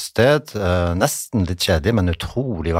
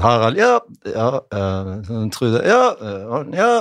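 teacher's roll call; 3 semitones higher, much slower than usual. Acted. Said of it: "så roper jo læreren opp".

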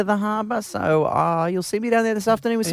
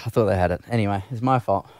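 low, meek, grovelling sorry; grovelling apology; 13 semitones lower than usual. Acted. Host grovels to his wife on air, meek and pleading. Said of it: "your grovelling".

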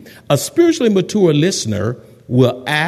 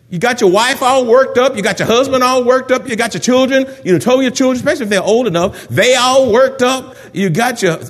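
worked-up scolding; 5 semitones higher than usual. Acted. Preacher acts confronting the complainer.

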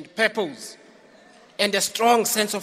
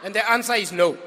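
roaring rallying speech; faster than usual. Real, not acted. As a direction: punch it out to the crowd. Rally crowd answer.

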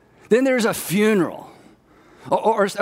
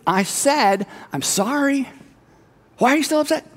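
exasperated complaint; 3 semitones higher than usual. Retold or imitated. Acting an exasperated apologizer.

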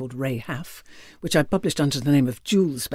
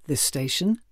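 "this station" lightly rising on the last word; mid-list inflection. Shown as a demonstration. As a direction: list "this station" with an unfinished tune. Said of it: "three different inflections".

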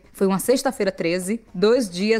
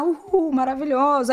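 higher, mock concert cheer; retold cheering; 5 semitones higher than usual. Fan recalling herself at the show, cheering. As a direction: cheer as if back in the crowd.

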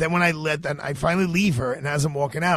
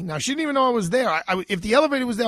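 ordinary talk

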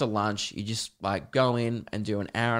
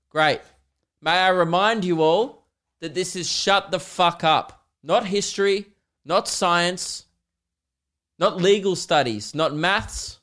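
stern teacher; 5 semitones higher than usual. Pretend. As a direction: lay down the law to the class. Teacher lecturing silent class.

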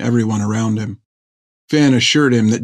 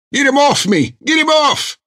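a much higher, pained bellow; growled in pain. Acted. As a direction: shove them away, furious with pain. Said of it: "growled Barker".

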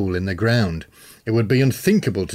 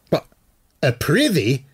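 horrified bellow; 6 semitones higher than usual. A narrator's reading. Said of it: "Murdin bellowed in horror".

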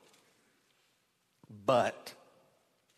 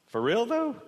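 incredulous paraphrase; 10 semitones higher, 4 dB louder than usual. Acted. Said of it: "It could have been".

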